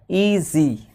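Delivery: ईजी drawn out slowly as two parts, ee-zee; split into syllables. Shown as a demonstration. Teacher showing students the two syllables, ईजी split slowly. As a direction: say ईजी slowly, one beat on each syllable. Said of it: "ई एक हिस्सा है sound का".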